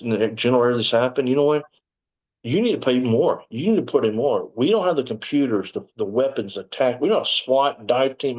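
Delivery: imitating an indignant lieutenant ripping into people; mildly heated mock scolding, punching each complaint; retold tirade. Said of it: "he ripped them up".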